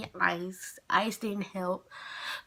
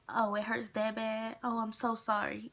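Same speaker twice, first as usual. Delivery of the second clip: mild apology; 5 dB quieter than usual. Retold or imitated. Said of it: "when she started seeing me cry".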